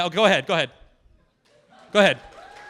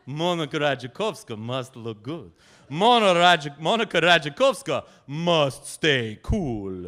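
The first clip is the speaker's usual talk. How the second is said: grand Polish lady. Acted. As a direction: announce yourself like nobility. Monika speaks of herself grandly.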